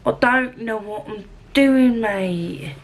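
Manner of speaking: mock Cockney, drawn out; Cockney accent. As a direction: put on a light Cockney accent. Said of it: "the Cockney accent that I've just been doing".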